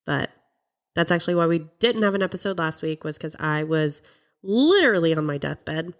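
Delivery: stuffy nose from a cold; nasal, blocked-up sick voice; congested voice. Real, not acted. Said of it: "for my nasally congested voice".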